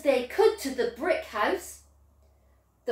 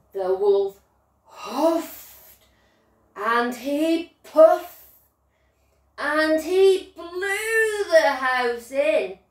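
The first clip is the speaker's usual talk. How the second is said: dramatic storytelling; 4 semitones higher, 4 dB louder, slower than usual. A narrator's reading. Narrator acts out blowing.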